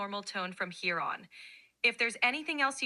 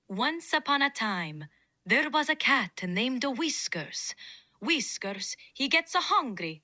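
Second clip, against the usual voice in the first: put-on Italian accent. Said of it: "Now use an Italian accent".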